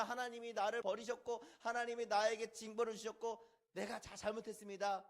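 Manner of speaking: lightly acted plaintive prayer; mock tearful confession. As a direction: plead contritely, as if in tears. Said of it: "그렇게 눈물 흘리면서". (울먹이는 시늉의 회개)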